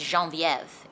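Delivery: "Geneviève" pronounced as in French, not "Genevieve"; French pronunciation. Shown as a demonstration. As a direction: give "Geneviève" its French sounds. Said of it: "pronounced in a French accent".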